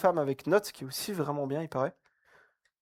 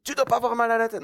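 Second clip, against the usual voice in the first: quick, higher mock-stern order, tongue in cheek; joking mock command; 6 semitones higher, faster than usual. Youth speaker teasing the group with a fake rule, quick mock-stern. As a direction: parody a moralising rule as a joke. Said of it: "Non, je blague".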